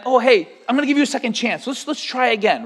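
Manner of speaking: lightly voiced casual king; breezy mock king. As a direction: toss off a second chance lightly.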